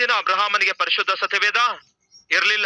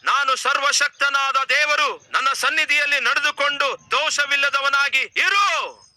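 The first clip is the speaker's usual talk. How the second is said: higher, slow, solemn proclamation of God; 5 semitones higher than usual. Acted. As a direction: declaim it as the Almighty speaking from above. Scripture: God speaks to Abraham.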